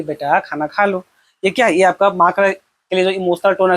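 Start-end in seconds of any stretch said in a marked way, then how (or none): 0.0-1.0 soft, slower motherly coaxing; gentle, lower and unhurried, with affection; loving mother. Acted. Mother tenderly calling her child to eat, lovingly. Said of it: "माँ जैसे आपको प्यार से बोलेगी".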